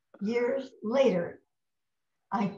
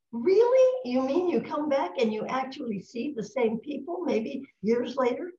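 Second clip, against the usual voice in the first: amazed disbelief; 4 semitones higher, 4 dB louder than usual. Retold or imitated. Retelling own astonished reaction.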